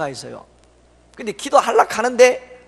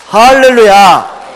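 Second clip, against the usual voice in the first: loud, drawn-out slow hallelujah; hallelujah shout; 5 semitones higher, 15 dB louder, much slower than usual. Real, not acted. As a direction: proclaim it to the whole hall. Preacher exclaims at miracle.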